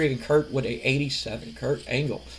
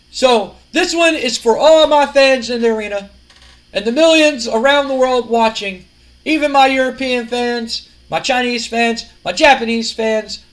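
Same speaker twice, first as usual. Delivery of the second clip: lightly acted promo dedication, slightly raised; Kurt Angle; 4 semitones higher than usual. Wrestler dedicates the match to fans worldwide, grandly. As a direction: roll out each group like a speech.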